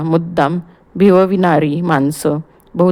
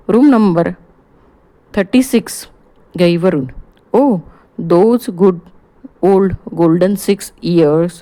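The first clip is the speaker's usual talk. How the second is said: jovial Gujarati doctor. Acted. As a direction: reminisce happily with an old friend. Doctor chatting excitedly on phone. (आनंदी Gujarati doctor)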